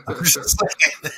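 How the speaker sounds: slow, high, laughing it off. Real, not acted. Joking about Fruit Loops to friends, laughing. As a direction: chuckle through the words, drawn out.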